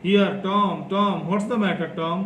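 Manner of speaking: urgently shaking him awake; anxious. Acted. Sid anxiously rousing groaning Tom.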